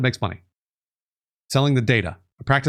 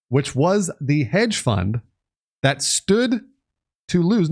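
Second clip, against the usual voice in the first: higher, emphatic step-by-step explaining; slowed-down explanation; 5 semitones higher than usual. Real, not acted. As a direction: spell it out in separate chunks with pauses. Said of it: "trying to say it slower".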